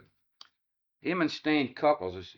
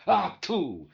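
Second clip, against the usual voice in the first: mild grumpy exclamation; 5 semitones higher than usual. Retold or imitated. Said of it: "he'd go".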